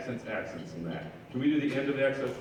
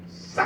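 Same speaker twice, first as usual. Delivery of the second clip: sung final hit. Shown as a demonstration. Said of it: "the end of the tune that's just going".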